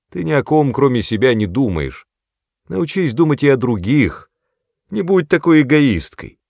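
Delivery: loud, high scolding; angry lecture. A narrator's reading. Brother scolds his sister as selfish, angry.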